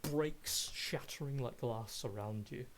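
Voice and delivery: measured descriptive scene narration; game master narration. Acted. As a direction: paint the fight for the players, steady and vivid.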